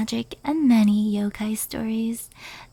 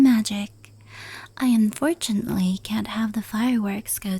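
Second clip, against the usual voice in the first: whisper. Acted. Yokai recounting fireworks lore to the listener, whispered. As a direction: hush every word as if telling a secret.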